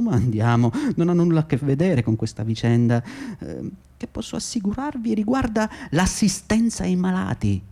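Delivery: self-justifying boss talking himself up; smug intermediary. Acted. Cooperative boss justifying himself to the audience, smug and defensive. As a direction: defend yourself with oily confidence.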